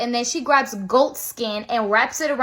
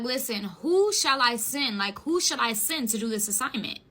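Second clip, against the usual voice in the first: soft divine voice; 2 semitones lower, 7 dB quieter than usual. Acted. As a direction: ask gently, with weight. God speaking to Isaiah.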